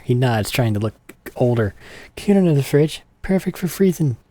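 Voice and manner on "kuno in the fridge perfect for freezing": put-on cocky kid Kuno. Streamer voicing a cocky kid who shows off. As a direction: brag like a cocky little punk.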